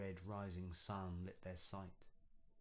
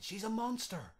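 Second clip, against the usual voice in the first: much higher, loud, shocked outcry; horrified cry; 9 dB louder than usual. Acted. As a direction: shriek it in disgust and fright. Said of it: "he cried".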